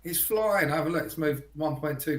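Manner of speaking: high mock-excited imitation of a friend; mocking impression. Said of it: "I hate it when he says that".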